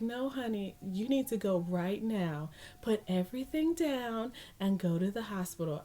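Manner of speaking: imitated sweet nurse, gently firm. Nurse insisting she leave now, sweet but firm. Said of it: "being as sweet as can be".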